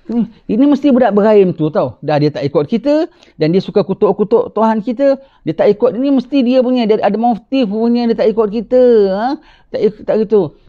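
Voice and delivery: tuduhan kaum. Acted. Kaum menuduh Ibrahim.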